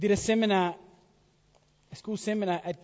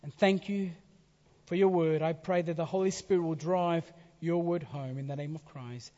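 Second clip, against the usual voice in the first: earnest pulpit prayer; closing prayer. Real, not acted. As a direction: pray over the congregation.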